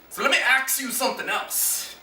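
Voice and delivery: "ask" said "aks"; casual "aks"; saying ax. Shown as a demonstration. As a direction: slip in "aks you". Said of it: "used the word axe instead of ask".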